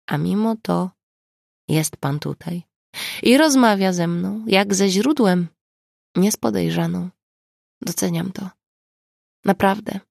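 understated, sincere gratitude; grateful. A narrator's reading. Suspect thanking the investigator who shields her, gratefully. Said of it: "powiedziała z wdzięcznością".

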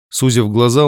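ordinary talk, nothing marked

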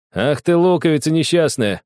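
high, mock-offended boy; surprised indignation. A narrator's reading. Boy surprised the little girl talks back. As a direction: splutter in surprise. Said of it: "удивился Огоньков".

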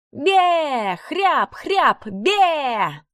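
очень высоко, по-козлиному; протянуть блеяние чужим голосом; блеяние не своим голосом. A narrator's reading. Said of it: "затянула не своим голосом". (не своим голосом, по-козлиному)

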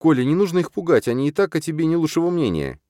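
put-on high light girl's voice; girl gently asking Kolya to stop; babbling girl voice. A narrator's reading. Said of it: "лепечет девушка".

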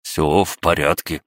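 forcing it out through chattering teeth; shivering voice insisting all is fine. Acted. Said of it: "стуча зубами, кое-как проговорил Кин".

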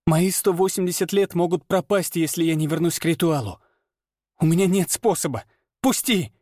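high, crying woman; pleading through tears; tearful plea. A narrator's reading. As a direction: Lana in tears, begging to be let go. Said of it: "она заплакала".

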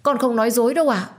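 high, tearful insistence; desperate plea. Acted. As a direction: beg to be believed. Servant insists she tells truth. (van xin tha thiết)

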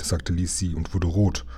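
usual speaking voice

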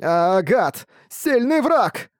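very high, slow squealing wail; panicked bat wail. A narrator's reading. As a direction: squeal it out from the dirt. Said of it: "вопила упавшая на землю мышь".

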